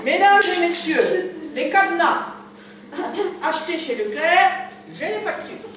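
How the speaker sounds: grand stage presenter voice; showman announcer. Acted. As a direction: announce it like a magician. Magician presenting to audience.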